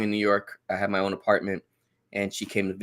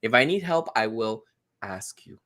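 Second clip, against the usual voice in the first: straightforward no. Acted. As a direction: refuse directly, spacing the words out. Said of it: "I'm gonna say no straightforward".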